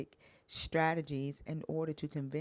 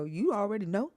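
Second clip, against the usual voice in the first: high, loud whining mockery; whiny ex impression; 8 semitones higher, 6 dB louder than usual. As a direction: mimic the ex, rising and shrill. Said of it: "And he'll go".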